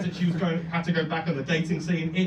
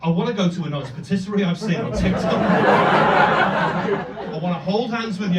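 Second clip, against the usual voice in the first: pleading outburst; 6 dB louder than usual. Pretend. Imagined emotional reply to friend.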